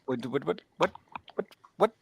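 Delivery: rising string of whats; sputtering disbelief. Retold or imitated. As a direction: stammer the whats, climbing up. Sputtering at the news.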